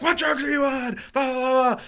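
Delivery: high-pitched imitation of an upset partner; mock scolding girlfriend. Girlfriend questions her high boyfriend, mock scolding. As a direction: nag in a high voice, tailing into blahs.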